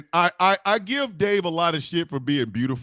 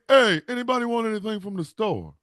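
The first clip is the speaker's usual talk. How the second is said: imitating Uncle Dam; 5 semitones higher than usual. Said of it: "He has that voice".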